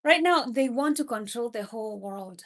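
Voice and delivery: Right now said forcefully, then the line falls; emphatic warning. Real, not acted. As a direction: hammer the warning home. Preacher repeats warning, emphatic.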